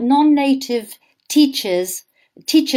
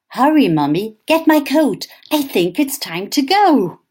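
put-on lively storybook reading for children; reading poem to children; 3 semitones lower than usual. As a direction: read it aloud like to a class of kids.

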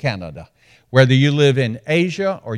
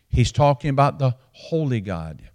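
reverent whisper. Real, not acted. Hushed reverence about holiness.

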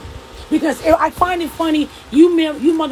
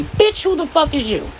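indignant; 3 semitones higher than usual. Real, not acted. Woman calling out podcast men again, scornful. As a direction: repeat the challenge with scorn. Angry rant at critics.

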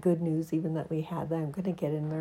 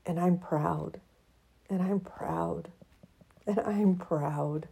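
each and I'm proud slower; slowing repetition; slower than usual. Acted. To her audience, slowing repetition. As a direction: let and I'm proud slow down each time. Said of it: "repeated with slowing".

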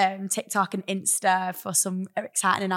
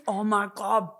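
crunching mid-bite. Real, not acted. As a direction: speak through a crunchy mouthful. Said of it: "I'm sorry if you can hear me crunching".

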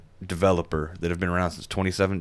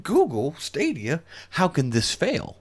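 high, slow mock disbelief; sarcastic high-pitched "how can this fail"; 9 semitones higher, slower than usual. Developers' sarcastic reply.

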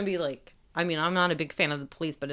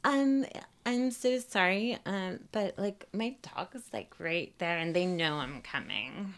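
put-on bitchy marina girl voice; 2 semitones higher, 5 dB quieter than usual. Shown as a demonstration. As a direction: play a polite but entitled rich girl. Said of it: "bitchy, um, white marina girl".

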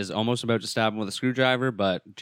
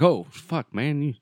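startled stoner dude; 3 semitones higher, 4 dB louder than usual. Retold or imitated. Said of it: "He's like".

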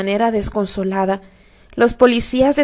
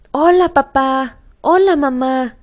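called out brightly from high up, higher and slow; shouted greeting; 4 semitones higher, 3 dB louder, slower than usual. A narrator's reading. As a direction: call down to mom and dad from the diving platform. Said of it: "grité".

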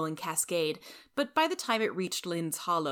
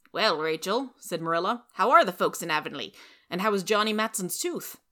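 a touch louder, brisk neighbourly Marilla; 5 dB louder than usual. Acted. Marilla greeting Rachel at her door, brisk and loud.

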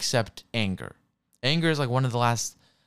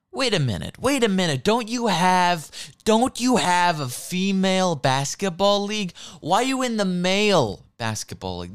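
indignant challenge; 6 semitones higher than usual. Real, not acted. Ranting at women in the male basketball league, indignant. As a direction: challenge them with rising outrage.

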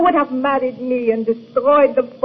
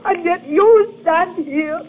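tearful accusation; 3 semitones higher than usual. Acted. Grieving woman accuses Victor.

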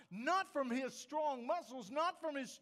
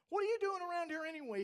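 mock-annoyed brother's demand, fast and higher; 4 semitones higher, faster than usual. Ticked-off older brother to David bringing food, demanding. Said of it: "he demanded".

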